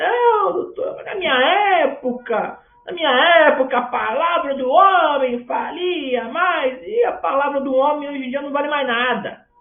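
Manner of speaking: put-on high, loud, indignant old-school businessman voice.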